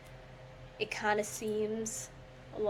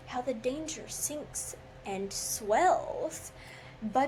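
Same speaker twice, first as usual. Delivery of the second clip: poem reading; 2 semitones higher than usual. Acted. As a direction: declaim the verse with theatrical weight. Dramatic reading of Poe poem.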